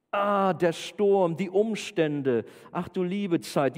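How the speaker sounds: drawn-out, mock-alarmed lament; acted dismay. Preacher plays believers seeing the storm, mock dismay. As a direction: wail slowly as if the troubles overwhelm you. Acts out dismay at sudden trouble.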